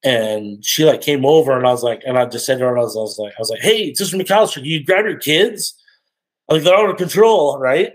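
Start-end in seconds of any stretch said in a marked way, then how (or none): 3.6-7.9 casual request. Retold or imitated. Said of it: "I didn't think I was saying it meanly".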